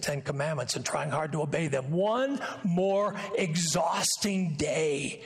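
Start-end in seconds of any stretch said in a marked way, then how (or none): 1.9-5.2 drawn-out exhausted groan of a line; weary. Acted. Preacher voicing his own weariness, slow and worn out. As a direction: sag under the weight of the day.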